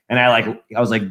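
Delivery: ordinary delivery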